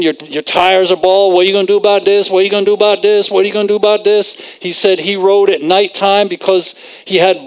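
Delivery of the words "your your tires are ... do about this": fast, relentless nagging, only mildly raised; mock screaming voices. Preacher voicing the thoughts screaming at a driver, rapid mock nagging. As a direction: rattle off the repeated question like lightly mimicked badgering voices. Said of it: "these voices kept screaming at him".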